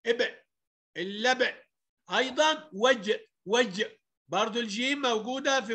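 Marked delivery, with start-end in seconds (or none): 0.1-1.6 إبء، اللبء with an echoing ب; qalqalah bounce. Shown as a demonstration. Teacher demonstrating to pupils, bounced ب in اللبء. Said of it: "أقلقلها أقول إيه". 2.7-3.8 وج with the ج released in an echo; qalqalah bounce. Shown as a demonstration. Teacher showing a second example, bounced ج in وج. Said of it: "فبقلقلها".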